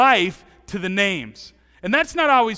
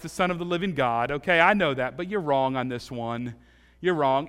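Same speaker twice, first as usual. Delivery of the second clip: Peter protesting; 3 semitones lower than usual. Pretend. Peter contradicting Jesus.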